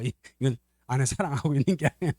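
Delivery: ordinary talk, nothing marked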